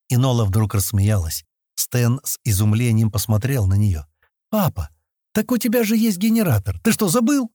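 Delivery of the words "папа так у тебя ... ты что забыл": put-on amused high-pitched girl's cry; laughing exclamation. A narrator's reading. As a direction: tease dad with a hint of laughter. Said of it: "смеясь воскликнула она". (весело, с намёком на смех)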